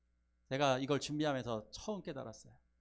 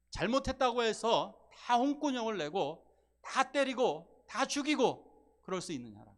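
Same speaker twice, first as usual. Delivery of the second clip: parent's reply; 7 semitones higher, 5 dB louder, slower than usual. Retold or imitated. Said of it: "부모님은 이렇게 말할 수밖에 없습니다".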